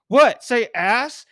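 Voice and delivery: loud high indignant shout; shouting across room. Retold or imitated. Carter shouting at friends across the Wendy's, loud and high. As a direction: yell it across the whole room.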